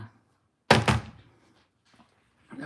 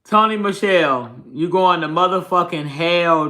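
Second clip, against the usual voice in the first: higher, louder, slow taunting shout; loud call-out; 3 semitones higher, 6 dB louder than usual. Real, not acted. Calling someone out loudly.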